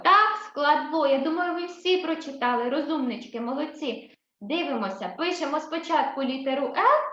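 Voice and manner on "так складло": "складло" drawn out slowly, louder; slow confirmation. Shown as a demonstration. Teacher confirms the syllable "ло" for the children, slowly.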